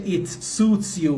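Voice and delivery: slow, spaced-out English answer; slow model answer. Shown as a demonstration. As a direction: lay each word out slowly. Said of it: "حالا جلوتر نوشتم".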